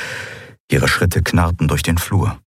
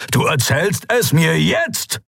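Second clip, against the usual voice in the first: angry bark, much higher and slow; 11 semitones higher, slower than usual. Acted. Father demanding answers from daughter, angry bark. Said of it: "bellte er".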